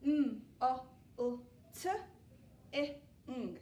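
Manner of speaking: mm, o, u, t, I, ng, each sound said apart. Shown as a demonstration. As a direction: tap out every sound in molting. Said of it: "just to double check it".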